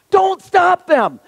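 slow, high, shouted rebuke; shouted command. Acted. Jesus ordering the disciples not to block the children, slow shout. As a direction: lean on every word and shout it.

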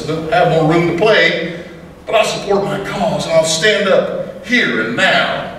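rhythmic cowboy poem delivery; poem recitation. Acted. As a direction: recite it like a campfire poet.

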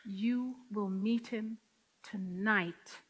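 hushed, slow, low whisper of God; God's voice. Retold or imitated. God answering her prayer in a slow hushed voice. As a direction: let it fall soft and still, like a voice in the silence. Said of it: "I hear God's voice say".

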